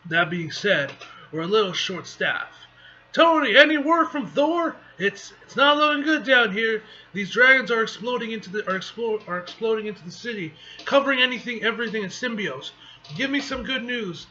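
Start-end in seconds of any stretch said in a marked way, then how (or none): 3.1-14.3 higher, urgent call for news; urgent superhero on the ground. Acted. Hero radios Tony about exploding dragons, urgent. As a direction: report the trouble over comms, pressed.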